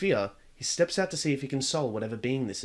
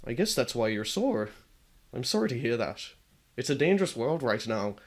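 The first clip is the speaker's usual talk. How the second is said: tearful; 3 semitones lower than usual. Acted. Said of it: "nearly tearing up himself".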